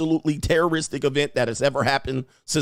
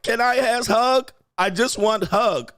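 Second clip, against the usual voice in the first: put-on baby-talk wife; 8 semitones higher, slower than usual. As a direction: whine it like a clingy toddler. Mocking wife asking for a hug.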